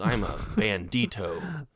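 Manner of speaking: put-on slow, proud Spanish accent. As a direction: announce yourself as a bandit with a Spanish accent. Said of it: "that's my Spanish accent".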